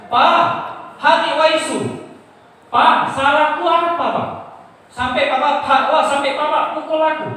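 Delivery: high, loud pleading shout; hysterical yelling, re-enacted. Beaten son protests his innocence to his father, re-enacted hysterical yelling. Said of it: "saya berhenti, saya teriak-teriak".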